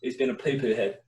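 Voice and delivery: a hint of whiny schoolboy; year seven kid. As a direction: lightly put on a childish complaint. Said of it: "as you used to speak in, like, year seven".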